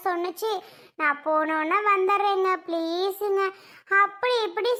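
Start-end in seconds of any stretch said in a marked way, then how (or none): 1.0-3.4 mildly imitated begging; light re-enacted plea; retold pleading. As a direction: coax as if asking permission. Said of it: "கெஞ்சி கிளறி கூத்தாடி".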